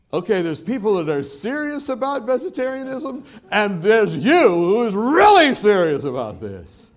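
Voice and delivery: high, loud mock amazement; reacting to someone far too intense; taken aback. Acts his startled reply to zealot.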